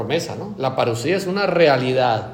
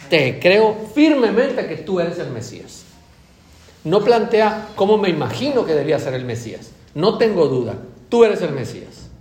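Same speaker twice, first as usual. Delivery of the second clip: fervent confession; 3 semitones higher, 3 dB louder than usual. Acted. Voices the confession to Jesus again.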